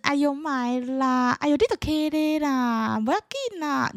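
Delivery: slow, high, lightly voiced elder saying "不要紧啦"; a hint of an indulgent aunt; generous relative. Relative pressing a red envelope on a youngster, mild indulgent voice.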